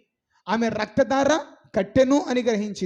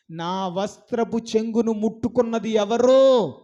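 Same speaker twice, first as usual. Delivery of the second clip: loud asking; 3 dB louder than usual. Retold or imitated. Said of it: "అని గట్టిగా అడిగాడు".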